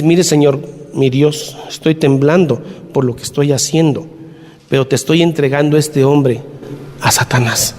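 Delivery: low-pitched mock prayer to God; imitated solemn prayer. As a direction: pray gravely as the retold pastor. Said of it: "empezó a hacer una oración".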